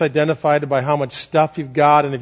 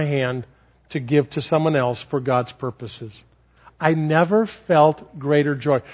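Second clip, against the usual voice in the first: tender joy; 3 semitones lower than usual. Retold or imitated. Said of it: "Amanda said to her mother".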